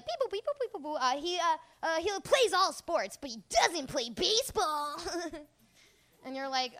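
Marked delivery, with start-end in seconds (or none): 0.0-5.0 toy phone voice. Retold or imitated. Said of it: "We're like".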